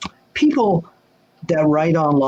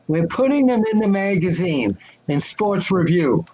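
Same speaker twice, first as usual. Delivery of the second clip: the boss's way of talking. Retold or imitated. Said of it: "and he talked like this".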